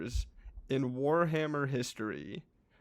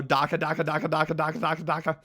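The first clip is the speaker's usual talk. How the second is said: rapid chant of gunfire, slightly raised; imitated orc yell; 4 dB louder, faster than usual. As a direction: chant it like orcs shooting. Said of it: "if they yell that".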